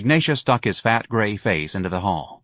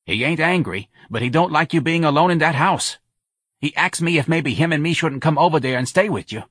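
high, busybody friend's voice; Santa; 7 semitones higher than usual. A narrator's reading. Friend relaying Claude's worry, high busybody voice. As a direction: press the point as a concerned friend.

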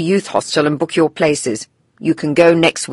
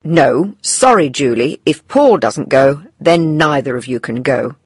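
firm refusal, slightly raised pitch; firm mother; 4 semitones higher than usual. A narrator's reading. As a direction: lay down a condition to your daughter. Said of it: "replies Missus Thomas firmly".

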